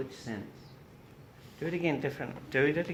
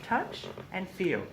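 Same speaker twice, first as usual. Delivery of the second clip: slow touch and feel; 4 dB quieter, slower than usual. Shown as a demonstration.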